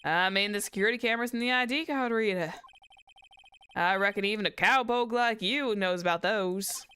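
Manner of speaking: folksy Southern cowboy explaining; quick, twangy Southern jab; Southern twang. Acted. Witness sneering at a cowpoke, Southern twang. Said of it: "I go into the southern twang".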